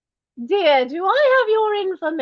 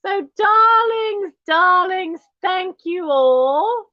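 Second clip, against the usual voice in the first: grand posh thanks; 3 semitones higher, 3 dB louder, slower than usual. Acted.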